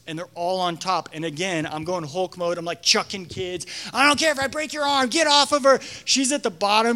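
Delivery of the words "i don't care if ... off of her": fast, higher angry order; furious command. Retold or imitated. Leader pulling kids off the crushed girl, angry order. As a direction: yank kids off her and mean it.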